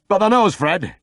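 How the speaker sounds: grumbling pub regular; gossiping Yorkshire drinker. A narrator's reading. Second drinker voiced.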